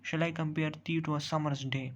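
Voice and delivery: teacher reading a sonnet line slowly to the class; slow poem reading. Shown as a demonstration. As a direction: read the Shakespeare line very slowly. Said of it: "देखिए अब".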